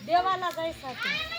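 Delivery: speaking up. Real, not acted. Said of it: "जोरात सांग ना".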